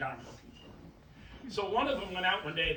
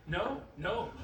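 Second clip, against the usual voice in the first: ordinary talk, nothing marked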